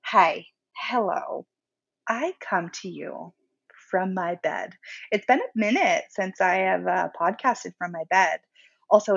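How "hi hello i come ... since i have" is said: sultry voice. Acted. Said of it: "Let me do my best sultry voice".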